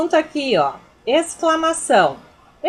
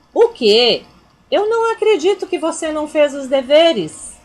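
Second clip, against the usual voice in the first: louder, higher indignant scold; 4 semitones higher, 5 dB louder than usual. Shown as a demonstration. Teacher acting out shock at undone homework, indignant. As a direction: sound shocked that homework wasn't done. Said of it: "eu tô indignando".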